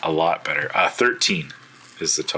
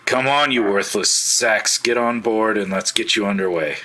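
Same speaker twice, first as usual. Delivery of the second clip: captain yelling at the cultists to board; barking orders; 4 semitones higher, 4 dB louder than usual. Acted. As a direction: drive the worthless prisoners aboard.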